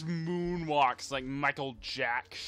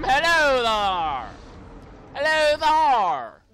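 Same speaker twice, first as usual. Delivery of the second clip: hammy villain greeting; 5 semitones higher, 5 dB louder, slower than usual. Pretend.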